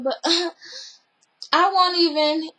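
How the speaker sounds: slow, laughing quip; laughing retort. Retold or imitated. Stepsister laughing back at the adult. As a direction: laugh through a cheeky comeback.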